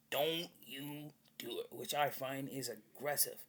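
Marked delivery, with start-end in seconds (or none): 0.1-1.7 mock pleading. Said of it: "there's something wrong with your decision, like".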